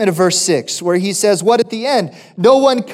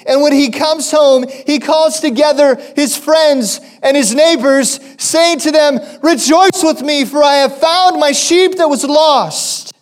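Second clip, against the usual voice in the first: joyful scripture reading; 6 semitones higher than usual. Acted. Reading joyful parable aloud.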